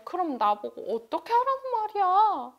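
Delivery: high, frustrated question; exasperated cry. Acted. Confused wife cries out in frustration, high.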